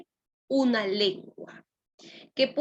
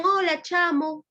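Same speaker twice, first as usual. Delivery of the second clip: put-on Venezuelan accent; 7 semitones higher than usual. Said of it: "de Venezuela".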